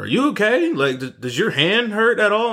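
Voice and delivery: worried. Retold or imitated. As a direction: rush over full of panicked concern. Worried dad runs over.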